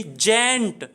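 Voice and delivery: जेंट set apart as the final syllable; a separate, demonstrative जेंट; syllable-by-syllable pronunciation. Shown as a demonstration. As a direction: isolate जेंट for the learner. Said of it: "एक और मात्रा आ गई दूसरी".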